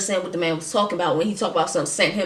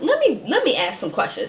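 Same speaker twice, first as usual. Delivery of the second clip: high, fast, flustered questions; high-pitched hurried asking; raised high questioning; 6 semitones higher, much faster than usual. Retold or imitated. Sudden high cautious questioning.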